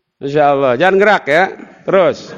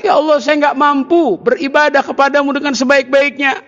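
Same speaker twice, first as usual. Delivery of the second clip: angel crying out; 4 semitones higher than usual. Retold or imitated. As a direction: cry out to God as an angel would. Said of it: "malaikat teriak".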